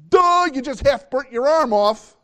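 high, loud exasperated duh; mocking duh. A parent mocking the child about the gasoline, exasperated.

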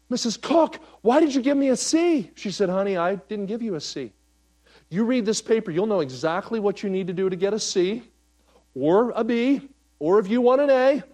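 lebih tinggi dan keras, guru ramah yang tersenyum; sweet teacher voice. Retold or imitated. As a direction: tell it like a smiling teacher who means it. Teacher quoted, higher voice.

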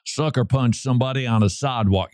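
lyrics read in a mild Southern accent. Shown as a demonstration. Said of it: "how's my Southern accent?".

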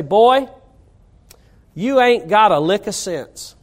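a hint of a North Carolina father scolding his boy; North Carolina accent. Preacher recalls his North Carolina dad scolding him, lightly accented. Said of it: "in that North Carolina accent".

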